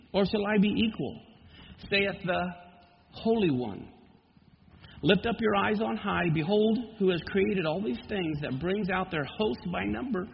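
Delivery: measured, solemn Bible reading; scripture reading. Acted. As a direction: read the prophecy with gravity. Reads Isaiah forty.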